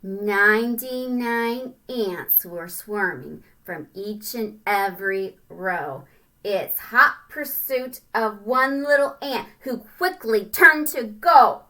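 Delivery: sing-song storybook reading; rhyming read-aloud. A narrator's reading. Parent reading a rhyming picture book to a child, sing-song. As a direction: bounce through the rhyme for kids.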